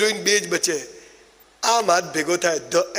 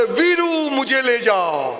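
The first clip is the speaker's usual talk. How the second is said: mock call from afar; 4 semitones higher, much slower than usual. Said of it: "દૂરથી બૂમ પાડે".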